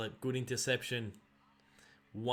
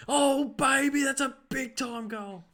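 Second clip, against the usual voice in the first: much higher, louder hammed-up caller; Dwayne Russell impression; 12 semitones higher, 8 dB louder, slower than usual. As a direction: squeal it like the TV commentator. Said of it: "Dwayne Russell goes a bit of".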